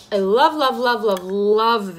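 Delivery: drawn out repeated love; slow gushing love, love. Real, not acted. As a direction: gush over the product. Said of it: "repeated love".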